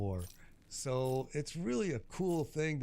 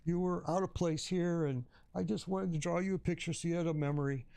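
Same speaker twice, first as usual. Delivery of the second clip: put-on old man voice; 5 semitones higher than usual. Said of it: "he's like".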